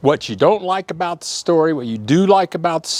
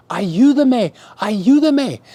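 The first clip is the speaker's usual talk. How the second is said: retold call for help; 6 semitones higher, slower than usual. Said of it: "I said".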